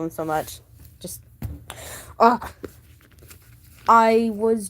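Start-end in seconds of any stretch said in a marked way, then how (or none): 2.2-2.5 short, loud, high cry; overwhelmed "ah". Real, not acted. Fan gushing over a favourite VTuber, overwhelmed cry. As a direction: let out a sudden fond outburst.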